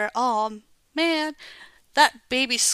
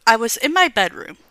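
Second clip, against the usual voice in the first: loud; 8 dB louder, faster than usual. Acted. Dramatic narrator flashback, loud.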